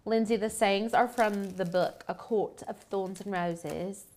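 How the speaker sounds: slipping into a light British accent; a hint of British accent on the book title; half-conscious British accent, slow on the title. Real, not acted. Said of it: "I don't know why I'm speaking in British accent".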